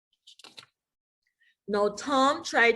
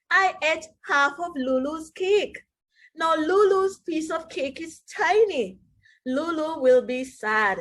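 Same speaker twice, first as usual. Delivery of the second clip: upset Tom; 5 semitones higher than usual. Acted.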